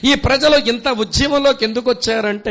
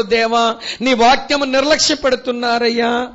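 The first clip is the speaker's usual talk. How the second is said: pleading prayer. Pretend. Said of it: "అని దేవుని సంధిలో ప్రార్థనకు".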